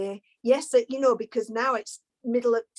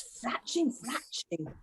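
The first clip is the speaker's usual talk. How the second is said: softer, fading, broken-up audio; glitchy connection; 8 dB quieter, slower than usual. Real, not acted. Host losing connection as her line glitches, fading out. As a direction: sound like a cutting-out call.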